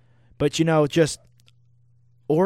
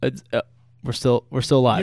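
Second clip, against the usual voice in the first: breathless, out of breath; panting, out of breath between words; 2 semitones lower than usual. Real, not acted. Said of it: "You're out of breath".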